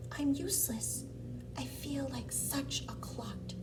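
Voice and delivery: dejected. Acted. Gerald tells himself he's useless, dejected. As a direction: say it softly, sorry for yourself. Gerald's sad self-talk in story.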